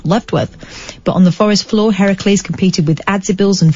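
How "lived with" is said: Lived with with the vowel of Lived pulled toward levd; New Zealand vowel. Shown as a demonstration. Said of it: "I made her a bit New Zealand then".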